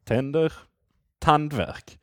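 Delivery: Tänder with two tops, tandvärk falling at the end; Swedish word pair. Shown as a demonstration. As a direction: read Tänder then tandvärk, showing the tones. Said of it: "take a word with two syllables".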